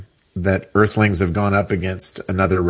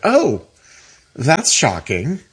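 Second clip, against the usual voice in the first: mock shock; 6 semitones higher, slower than usual. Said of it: "you're like".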